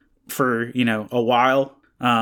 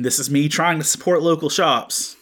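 disdainful; 2 semitones higher than usual. Real, not acted. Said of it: "with disdain in my voice".

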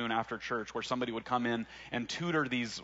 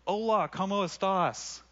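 high, slow, hammed-up holler at a stranger; high mock scream; 8 semitones higher, 3 dB louder, slower than usual. Teens yelling a greeting at a passing man, slow high mock scream. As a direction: belt the greeting out like a goofy teen. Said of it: "and we screamed".

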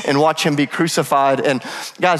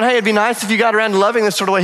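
mock casual suggestion; 4 semitones higher, faster than usual. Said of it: "He's not going".

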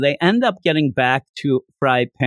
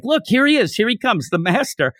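excited watchers; 8 semitones higher than usual. Retold or imitated. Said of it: "they're like".

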